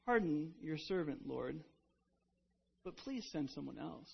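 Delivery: soft, humble plea that fades very quiet by the end; very polite. Retold or imitated. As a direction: beg the Lord meekly, almost under your breath. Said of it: "he says it very politely".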